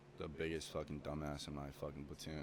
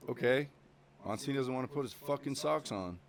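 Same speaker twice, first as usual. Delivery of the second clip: loud, much higher mocking yell; drill instructor shout; 7 semitones higher, 6 dB louder than usual. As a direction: call him out in front of everyone. Drill instructor calls him out.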